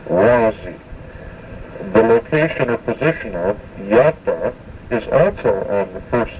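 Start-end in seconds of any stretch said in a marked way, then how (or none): 0.1-0.8 WA-zi, Wazi stressed on its opening syllable; accent the start of Wazi; stress on first syllable. Shown as a demonstration. Teacher repeating the separate word for pine tree, Wazi stressed on WA. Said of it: "Accent is on the first syllable". 3.8-4.5 YA-ta, Yata accented at the start; stress on first syllable. Shown as a demonstration. Teacher explaining the word for location, Yata stressed on YA. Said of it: "the accent is on the first syllable".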